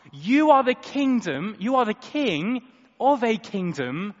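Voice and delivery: calling out to the crowd, loud and high; loud declaration. Acted. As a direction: proclaim it to everyone around, full voice. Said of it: "declares to everyone around".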